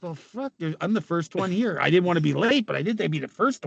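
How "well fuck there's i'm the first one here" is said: muttered to himself. Retold or imitated. Inner thought arriving alone.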